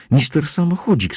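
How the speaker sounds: wysoki, gniewny ton; lekki gniew. A narrator's reading. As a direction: powiedz to z wyrzutem, dużo wyżej. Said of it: "stwierdziła z gniewem". (z gniewem)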